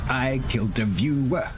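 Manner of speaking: high, slow stunned disbelief; shocked. Real, not acted. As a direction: say it like you can't believe it. Repeated in shock.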